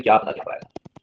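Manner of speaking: whispered, clueless student mumble; mock clueless students. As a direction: mutter it like a lost student. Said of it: "बच्चे कह रहे हैं". (फुसफुसाता हुआ बेपरवाह छात्र)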